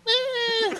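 mock disgusted grunt. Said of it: "I'm like".

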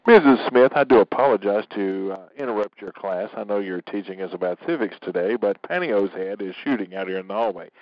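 overly polite pretend student. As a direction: play the well-mannered pupil at the door. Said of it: "The floor is yours".

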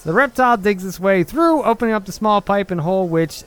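put-on old radio announcer with a JFK-style New York accent. Reading a newspaper clip for a video in his New York accent. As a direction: read the clipping like a vintage newsreel voice. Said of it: "You sound a mix between, like, an old radio person and J F K".

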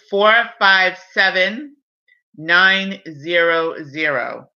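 each digit said slowly and clearly; slow dictation. Real, not acted. Dictating access code.

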